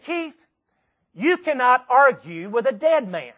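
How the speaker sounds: insist, leave no room to argue; firm insistence. Retold or imitated. Irene insisting on the gift.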